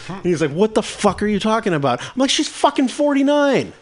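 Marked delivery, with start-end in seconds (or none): 0.5-2.0 high-pitched incredulous comeback; retold bafflement. Brother's baffled reply in acted quarrel. 2.3-3.7 high, drawn-out exasperated climax; retold exasperation. Climax of acted quarrel.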